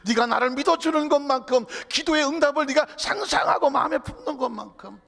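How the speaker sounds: loud, high proclaimed scripture paraphrase; full-force preaching. Retold or imitated. Preacher voicing Jesus' promise about faith, full-force preaching. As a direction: declaim it forcefully to the congregation.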